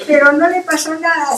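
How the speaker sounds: words spoken through laughter; amused, laughing aside. Real, not acted. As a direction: keep laughing as you talk. Still laughing.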